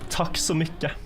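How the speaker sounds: put-on "Takk så mycket" with a strong Norwegian accent. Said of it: "In a very Norwegian accent".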